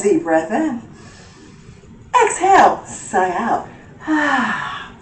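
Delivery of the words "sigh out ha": audible sigh. Shown as a demonstration.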